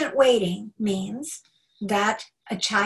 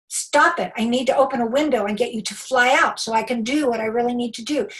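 annoyed parent; 4 dB louder than usual. Retold or imitated. Parent scolding a pestering child.

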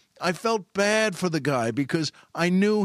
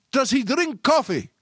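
higher, slow, drawn-out call; retold yell; 9 semitones higher, 4 dB louder than usual. Store guy calling after the shopper down the hall, retold yell. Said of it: "he yelled".

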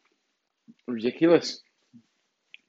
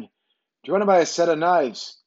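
raised-pitch mock seller's accent; imitated street seller's accent; 5 semitones higher than usual. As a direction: put on a stranger's accent, pitching it up. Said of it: "That was his accent".

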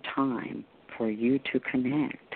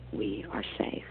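whispered; 2 semitones lower, 4 dB quieter than usual. Acted. Reassuring during meditation.

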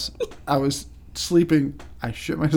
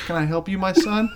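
Godfather; 4 semitones higher than usual. Retold or imitated. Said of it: "talking to the fucking Godfather".

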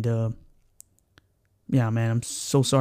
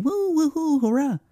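cheering; 12 semitones higher than usual. Retold or imitated. Kids cheer after rescuing dog.

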